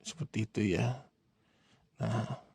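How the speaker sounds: ordinary delivery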